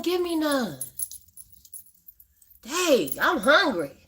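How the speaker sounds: pretend-hurt plea for a share; mock pleading. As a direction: tease her for holding out on the stew. Begging a viewer for stew.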